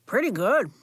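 talking through a cookie; chewing while talking; mouth full. Acted. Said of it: "talking with his mouth full".

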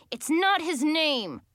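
high, drawn-out indignant yell. A narrator's reading. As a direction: yell it slowly in protest. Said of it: "I yelled".

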